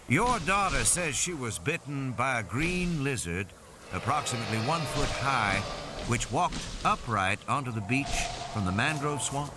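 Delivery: a hint of a methodical field biologist; lightly voiced biologist. Biologist checking details with parents, lightly voiced biologist.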